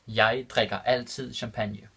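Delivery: Jeg drikker altid champagne said slowly, word by word; careful slow repeat for students; slow and clear. Shown as a demonstration. Teacher repeating the Danish example for learners, slow and clear. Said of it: "repeated slower for learners".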